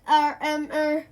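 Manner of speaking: loud nervous hesitating sounds; terrified Terry stammering. Acted. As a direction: stumble over nothing. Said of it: "He stammers".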